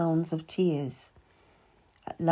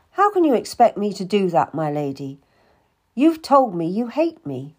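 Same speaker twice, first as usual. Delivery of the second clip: hurt anger; 5 dB louder than usual. Acted. Cat accuses Anne of hating her, hurt and angry. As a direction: throw her cruelty back at her.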